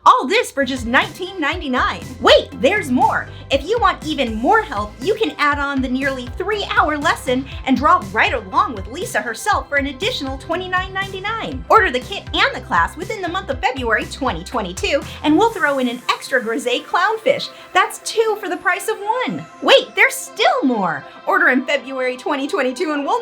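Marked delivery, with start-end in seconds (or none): 2.2-3.3 infomercial hype. Acted. Infomercial catchphrase. 19.6-21.0 infomercial hype. Acted. Infomercial catchphrase.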